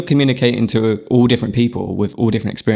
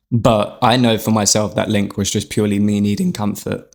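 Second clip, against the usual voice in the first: voice crack. Real, not acted. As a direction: voice cracking with emotion. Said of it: "Oh, little voice crack".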